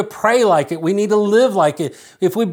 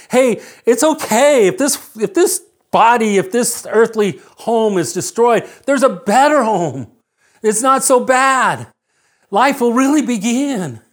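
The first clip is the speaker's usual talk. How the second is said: higher, lifted preaching voice; emphatic reassurance; 5 semitones higher than usual. Retold or imitated. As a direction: proclaim comfort with rising conviction. Voices Paul's encouragement to believers.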